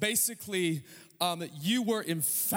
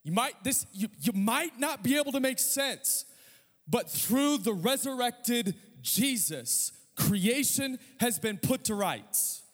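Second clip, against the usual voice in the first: voicing John, preaching; 6 semitones higher, slower than usual. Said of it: "John is saying".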